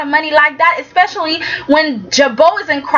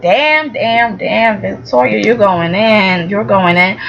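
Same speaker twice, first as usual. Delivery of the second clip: low teasing egging on; 5 semitones lower than usual. Retold or imitated. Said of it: "I was like".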